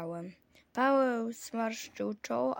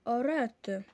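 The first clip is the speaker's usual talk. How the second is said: mild exclamation; 4 dB louder than usual. Acted. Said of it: "zawołałem".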